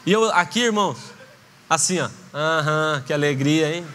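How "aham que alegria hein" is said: forced fake joy. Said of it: "Super feliz eu tava".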